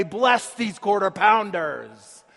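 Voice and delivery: slow, grand intoning of quarter pounders; slow churchy mock blessing; mock solemn prayer. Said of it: "sound like a fifteenth century Franciscan monk".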